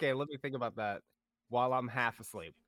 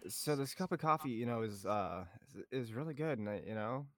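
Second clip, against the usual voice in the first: imitating the guard. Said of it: "And then he pauses".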